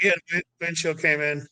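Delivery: unbothered, matter-of-fact report; calm even tone. Retold or imitated. Josh on the radio telling the crew chief, calm. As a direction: say it like it's nothing. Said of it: "that was the voice, like, that was the tone".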